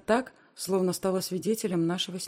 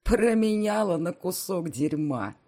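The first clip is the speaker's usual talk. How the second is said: lamenting outburst; 3 semitones higher, 6 dB louder, slower than usual. A narrator's reading. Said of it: "продолжает она сокрушаться".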